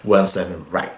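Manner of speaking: one seven left, one seven right in English, unhurried; English runway call. Shown as a demonstration. Pilot teaching viewers English runway calls, measured English. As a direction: model the radio call in English. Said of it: "em inglês a gente sempre vai falar".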